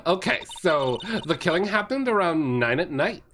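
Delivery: put-on light valley girl lilt. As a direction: play it like a ditzy valley girl. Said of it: "I'm giving her a Valley Girl voice".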